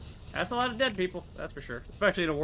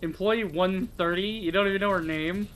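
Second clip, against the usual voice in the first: incredulous; 5 semitones higher, 4 dB louder than usual. Real, not acted. Mocking the game's naming.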